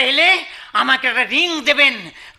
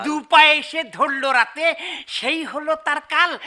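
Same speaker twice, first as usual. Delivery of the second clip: husband reading the elegy aloud; reading a poem. Acted. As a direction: recite each line with a steady rhythm. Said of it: "আমি পড়ছি".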